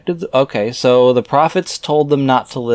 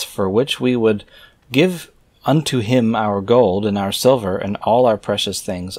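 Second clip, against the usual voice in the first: raised, measured reading voice; scripture reading. Acted. Reader reciting scripture verses aloud in a solemn reading voice. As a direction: read the old verses out with solemn weight.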